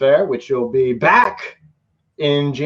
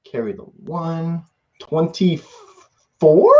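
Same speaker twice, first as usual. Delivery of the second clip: slow counting; 3 semitones higher, much slower than usual. Real, not acted. Counting videos slowly.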